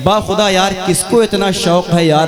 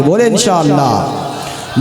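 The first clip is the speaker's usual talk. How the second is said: slow call for the crowd to repeat; slow congregational prompt at usual pitch; drawn-out prompt; slower than usual. Real, not acted. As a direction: stretch the words out to cue the crowd.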